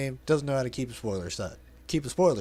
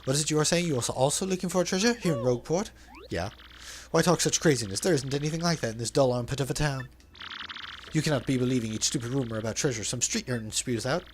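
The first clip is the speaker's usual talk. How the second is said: flamboyant merchant voice, lightly put on; theatrical braggart reading; hammed-up Flavio. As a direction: play the vain, dramatic sailor.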